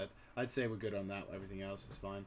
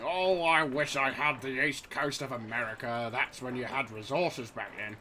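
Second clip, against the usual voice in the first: wistful quote; 4 dB louder than usual. Retold or imitated.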